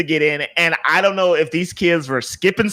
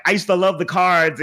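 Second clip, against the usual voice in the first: lightly imitated foreign-accented English; imitated heavy accent. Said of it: "with his heavy accent".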